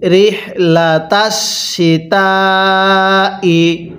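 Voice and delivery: very slow, drawn-out melodic recitation; slow chanted tajweed reading; Quran recitation. Shown as a demonstration. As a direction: recite each syllable long and sung. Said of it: "আমার সাথে পড়ুন".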